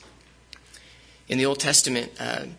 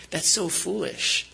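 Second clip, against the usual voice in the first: scoffing; 5 semitones higher, slower than usual. Retold or imitated. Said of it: "We, we would say".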